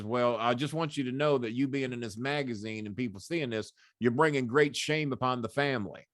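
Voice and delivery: lightly imitated Southern general father; a hint of Southern general passing judgment; Southern general, only half put on. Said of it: "he talked like a Southern general".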